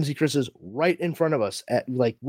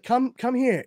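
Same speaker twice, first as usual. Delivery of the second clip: high, urgent coaxing; high-pitched retold summons; beckoning; 10 semitones higher than usual. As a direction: imitate a woman waving someone closer. Actress beckoning brother over, retold.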